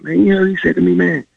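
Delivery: high-pitched, indignant retort; retold pissed-off. Pissed player answering his roommate about coach, retold indignation. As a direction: replay an aggrieved comeback. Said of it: "And I'm all pissed".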